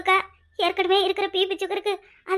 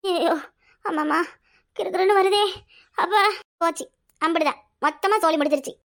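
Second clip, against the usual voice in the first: faked dizziness; 2 semitones lower than usual.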